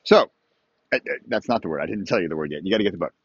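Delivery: ordinary talk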